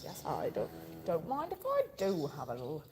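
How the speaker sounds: lightly voiced cow, half whispered; a hint of a contented cow; voicing the cow. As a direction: play the cow, breathy and pleased. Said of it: "she says".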